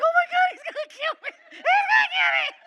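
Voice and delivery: very high shrieking laughing panic. Retold or imitated. Fluffy panics behind the door, high laughing shriek. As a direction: squeal like you're doomed.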